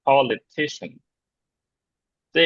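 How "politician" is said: "politician" with lighter stress on pol, main stress on ti; primary and secondary stress. Shown as a demonstration. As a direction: land on ti in "politician". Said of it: "primary stress বলে আর কি".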